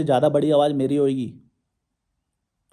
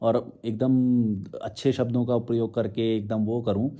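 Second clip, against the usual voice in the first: slow, softer, lower sweet-talking voice; mock gentle calm; 4 semitones lower, 4 dB quieter than usual. Shown as a demonstration. Showing critics the calm preaching they want, mock gentle. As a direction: parody of polite peaceful speech. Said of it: "मतलब मैं शांति से बात करूँ यूं करके".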